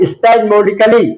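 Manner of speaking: spasmodically spoken slowly with a clear mo in the middle; slow pronunciation demo. Shown as a demonstration. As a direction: stretch spasmodically out so the middle mo is heard. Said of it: "तो इसका उच्चारण है spasmodically". (spasmodically को धीरे, बीच में मो साफ़ बोलकर)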